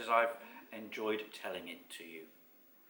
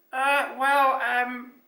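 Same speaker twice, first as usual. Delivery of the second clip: high, loud nervous stammer; flustered high-pitched character; Basil; 14 semitones higher, 11 dB louder, much slower than usual. A narrator's reading. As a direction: hesitate in a little creature voice. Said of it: "said Basil".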